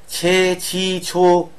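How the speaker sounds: "ছে, ছি, ছো" sounded out as separate syllables; teacher listing the endings "ছে, ছি, ছো"; pronunciation demo. Shown as a demonstration. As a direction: give "ছে, ছি, ছো" one by one, each vowel held. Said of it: "এর উচ্চারণগুলো কিরকম".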